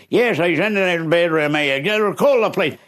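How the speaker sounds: high, urgent reply; husband urging wife to call police; husband answering. Retold or imitated. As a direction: tell her to ring the police. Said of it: "husband answers wife".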